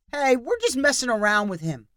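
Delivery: high, loud public declaration; loud announcement. A narrator's reading. Steelers fan covering for Danny to the crowd, loud. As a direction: make sure the whole line hears. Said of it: "announced loudly".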